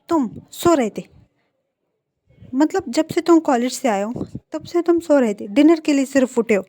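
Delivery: shocked. Acted. Wang shocked Wing slept all day.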